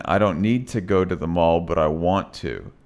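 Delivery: fast, middle "to" clipped, final "to" full; reduced then full to. Shown as a demonstration. Teacher showing "to" in middle versus end. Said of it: "So again".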